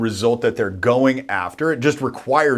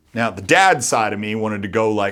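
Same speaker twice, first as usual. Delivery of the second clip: normal talking voice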